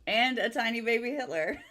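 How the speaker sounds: giggling through the words; laughing. Real, not acted. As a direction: laugh as you say it. Laughing while saying it.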